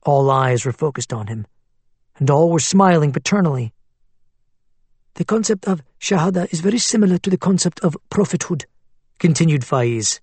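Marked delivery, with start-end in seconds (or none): 5.2-8.6 persuasive cleric voice. Acted. Faiz lecturing.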